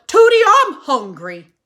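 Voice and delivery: loud, whiny call with a laugh in it; shouted complaint. Acted. Mister Tickum calling his wife for food, loud shout. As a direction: yell it like a hungry husband. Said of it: "shouted Mister Tickum".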